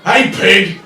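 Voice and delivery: high, loud, drawn-out jeer; booming insult from the back of the room; heckling shout. Acted. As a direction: yell it slowly across a crowded bar. Heckler yells across the bar.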